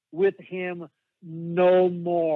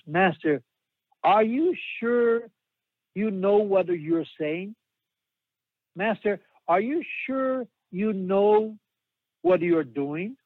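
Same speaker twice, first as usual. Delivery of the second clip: lightly voiced nervous little boy; 3 semitones higher, slower than usual. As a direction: ask it like a worried child, slowly. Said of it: "in a little boy's phrasing".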